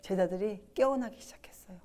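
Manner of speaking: hushed, breathy telling of the disciples waking; whispered narration. Acted. Preacher whispering to his flock about disciples waking. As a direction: lean in and whisper it to the congregation.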